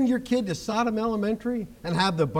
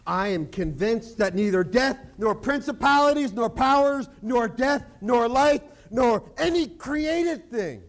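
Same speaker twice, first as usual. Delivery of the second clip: rising preached quote; 2 semitones higher than usual. Acted. Preaching Romans with force.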